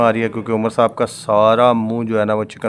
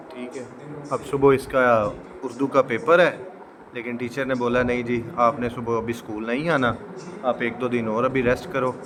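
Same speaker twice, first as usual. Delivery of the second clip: hushed voice; 9 dB quieter than usual. Real, not acted. Son resting after injection.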